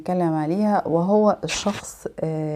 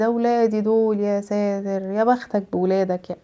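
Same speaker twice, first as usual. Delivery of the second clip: envious sulk; 5 dB quieter than usual. Retold or imitated. Envious person reacting.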